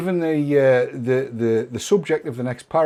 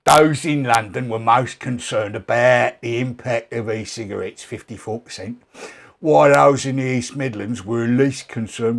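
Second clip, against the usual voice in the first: gravelly South London; 2 semitones lower than usual. Pretend. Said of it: "I'll do an impersonation of Matt with his gravelly South London voice".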